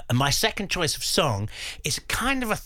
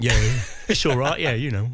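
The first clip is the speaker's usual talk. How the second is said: put-on cod London accent; 3 dB louder than usual. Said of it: "I spoke in a cod London accent".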